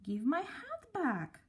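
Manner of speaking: slow, growled demand from the hatless man; lightly voiced angry stranger, slow; gruff angry man. A narrator's reading. Angry man snapping at Mister Good for grabbing his hat, slowed and menacing. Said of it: "he thundered".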